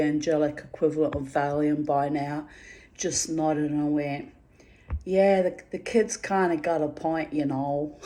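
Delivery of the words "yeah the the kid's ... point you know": mild, badly faked American accent for the angel; shitty American accent. Angel answering her in a mock American accent. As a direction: toss off a lazy American accent, barely there. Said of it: "she has a shitty American accent".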